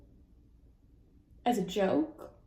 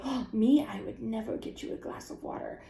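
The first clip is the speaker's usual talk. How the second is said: mock teasing reply; 4 dB quieter than usual. Acting partner's joking reply.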